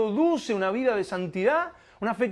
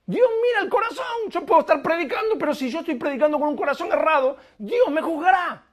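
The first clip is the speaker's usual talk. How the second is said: much higher, fast and louder; preaching at full force; 8 semitones higher, 4 dB louder, faster than usual. Real, not acted. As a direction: drive it home with fire.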